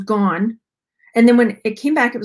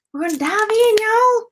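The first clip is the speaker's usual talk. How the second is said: excited hype; 11 semitones higher than usual. Real, not acted. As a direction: pitch jumps high, bouncy and eager. Hyped intro before the dig.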